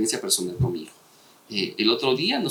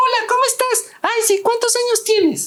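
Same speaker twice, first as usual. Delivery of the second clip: put-on very high childlike voice, put on; 6 dB louder than usual. Showing how easy it is to fake a kid's voice, put-on child's voice. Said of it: "hacer la, la voz de niños es bien".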